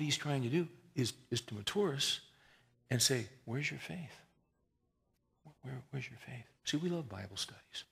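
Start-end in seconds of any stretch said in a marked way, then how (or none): 3.5-6.4 quiet, probing rebuke; soft questioning. Retold or imitated. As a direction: ask it softly, twice. Repeats God's question.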